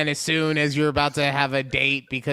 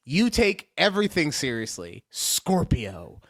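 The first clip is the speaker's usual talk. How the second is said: "Scorpio" dropped low after a pause; weighty standalone "Scorpio"; Scorpio set apart; 3 semitones lower, 3 dB quieter than usual. Real, not acted. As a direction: set "Scorpio" off on its own, much lower. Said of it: "Why do you say it like that?".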